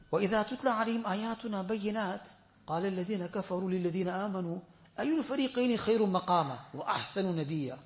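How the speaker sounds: rapid chanted Arabic recitation; quick Arabic recitation. Acted. Quoting the hadith to the congregation, quick Arabic recitation. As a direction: rattle off the Arabic hadith text.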